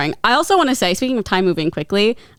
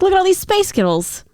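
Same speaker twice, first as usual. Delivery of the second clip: high, bouncy Scottish accent; 11 semitones higher than usual. Shown as a demonstration. Host demos the Scottish mishearing in a Scottish accent. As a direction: sing it out in a Scottish lilt. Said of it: "that is very Scottish".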